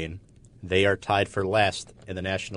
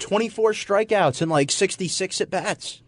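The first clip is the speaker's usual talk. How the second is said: ranting impression; 11 semitones higher than usual. Continuing the Francesa rant.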